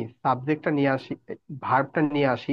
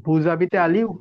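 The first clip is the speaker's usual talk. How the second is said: "বুজাবিতে আলিউ" rising on "আলিউ"; "বুজাবিতে আলিউ" asked with rising pitch; rising question tune; 3 semitones higher, 4 dB louder than usual. Shown as a demonstration. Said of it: "গলার টোনটা একটু ভিন্ন করে দিলেই".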